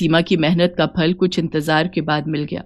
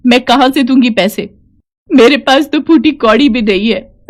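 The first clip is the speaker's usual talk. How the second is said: higher-pitched plea building into crying; pleading, near tears; 3 semitones higher than usual. Acted. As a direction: beg as a bereaved mother, breaking down by the end. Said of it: "ये कहकर वो औरत रोने लगी".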